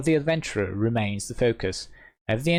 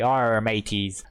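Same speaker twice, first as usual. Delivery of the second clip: slow, drawn-out pirate growl of Arr; a mild Long John Silver pirate; lightly voiced pirate greeting; slower than usual. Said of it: "Long John Silver voice".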